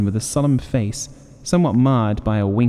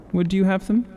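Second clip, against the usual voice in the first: sharply raised, probing question; keen question; 9 semitones higher than usual. A narrator's reading. Old man probing the soldier about wishes, keenly raised. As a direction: ask it keenly, voice lifted high. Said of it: "eyeing him keenly".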